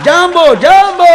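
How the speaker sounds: high, slow, loud call of jambo; storyteller mimics African ghosts, slow high loud jambo. Belting out a slow, high jambo greeting.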